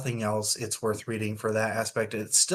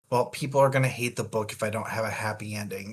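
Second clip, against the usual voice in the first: quick mock author excuse, ending in a louder burst; mock author's voice; 6 dB louder, faster than usual. Podcaster mocks the author forcing a happy ending, quick then louder. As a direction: rattle it off like the author, then blurt the last part louder. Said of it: "I think that is very much just a".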